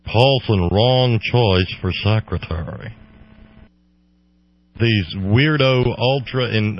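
clenched-teeth snooty tycoon voice; Thurston Howell voice. Retold or imitated. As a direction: talk through clenched teeth like an old-money snob. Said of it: "talk with your teeth clenched like Thurston Howell the third".

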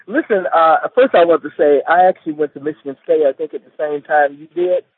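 muffled voice on a phone line. Real, not acted. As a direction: talk with the mic half covered. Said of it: "your voice is kinda muffled".

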